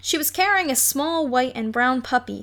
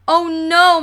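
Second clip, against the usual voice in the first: louder dismay through a held nose; holding nose; 6 semitones higher, 8 dB louder than usual. Acted. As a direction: groan it with nose pinched. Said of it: "as if they had the worst colds".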